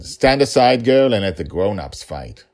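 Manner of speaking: loud, scornful villain voice; cold rasping evil emperor. Acted. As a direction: sneer at the little girl. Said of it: "the Emperor said".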